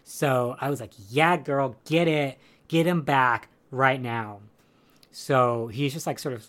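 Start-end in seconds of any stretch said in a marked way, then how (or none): 1.1-4.4 louder, rallying cheer; cheering her on. Retold or imitated. Viewer rooting for the woman fighting back, cheering. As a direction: egg her on, punching it out.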